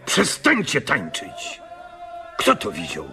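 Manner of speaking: high, urgent cries at the dancers; pleading for the dancing to stop; desperate plea. Acted. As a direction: beg them to stop, voice strained. Man begs dancers to stop.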